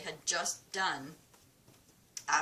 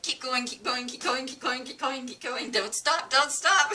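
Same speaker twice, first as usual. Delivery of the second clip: high, rapid-fire chant building to a shout; urgent egging on; 8 semitones higher, 5 dB louder than usual. Retold or imitated. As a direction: imitate a coach who won't let them stop. Technician urging her through the test.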